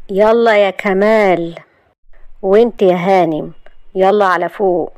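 firm order, first call drawn out; commanding. Acted. Yousef ordering Kamal out and Shahd upstairs, commanding. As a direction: send them off firmly.

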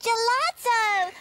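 gasp, then a thrilled slow Gelato; overjoyed at the treat; delighted gasp. Acted. Gasps at the gelato.

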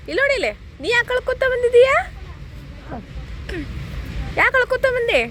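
high-pitched questioning of a little one. Real, not acted. Asking another child why they cried.

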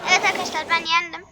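fast, loud victory cry; triumphant. Real, not acted. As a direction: celebrate the win. Celebrating victory.

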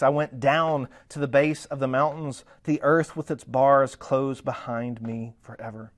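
emphatic reading of Jonah's prayer, slowing toward the end; scripture reading. Acted. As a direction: declaim the verse deliberately.

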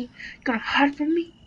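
sing-song taunt rising at the end. Acted. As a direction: tease the hiding enemy. Taunting an enemy.

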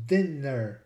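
dinner with short I and short E; both vowels short. Shown as a demonstration. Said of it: "both short".

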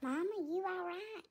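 lightly put-on sassy cat voice; sassy cat Willow. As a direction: talk back like an offended diva cat.

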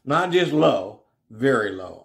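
preacher underlining "very"; stress on very. Shown as a demonstration. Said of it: "Notice he said".

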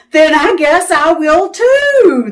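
a bright, happy pollywog line; lightly happy little voice; happily. Acted. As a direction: chirp it out, pleased. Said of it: "the pollywog said happily".

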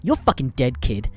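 furious rant. Retold or imitated. Maurice's furious rant at Pickles.

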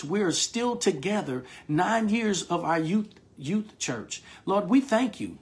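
earnest spoken prayer to God. Acted. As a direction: pray it out with devotion. Pastor leads congregation in prayer.

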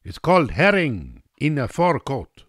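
high-pitched Russian hostess putting him right; insistent correction. A narrator's reading. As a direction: spell it out high and emphatic. Russian woman insists on right word.

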